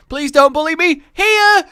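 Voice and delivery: loud teacher reading the register. Pretend. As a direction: call the name like a roll call. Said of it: "the register".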